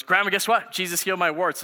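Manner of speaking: imitating an excited boy telling grandma; excited child. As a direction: burst out with big news like a kid. Child announces healing to grandma.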